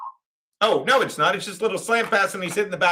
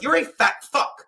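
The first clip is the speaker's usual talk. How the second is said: re-enacted yelled insult, pitched up; mock yell without full volume; retold yelling; 5 semitones higher than usual. Host retelling his insult to the chat guy, mildly yelling. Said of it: "'cause I'm yelling".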